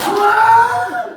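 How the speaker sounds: very high, loud "우와!" with a laugh; delighted cry. Real, not acted. Teacher thrilled at the class's chant, delighted cry. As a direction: cheer in delight.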